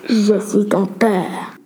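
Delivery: low, very slow mock villain voice; a teasing deep menacing father line; joking Darth Vader. Sarah joking to Corentin, mock movie villain. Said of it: "plaisanta Sarah".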